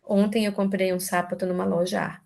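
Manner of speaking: "Ontem", "sapato" and "loja" stressed on the wrong syllables: onTEM, SApato, loJA; shifted word stress. Shown as a demonstration. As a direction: garble the sentence by misplacing stresses, "loja" as loJA. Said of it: "Eu só mudei a sílaba tônica".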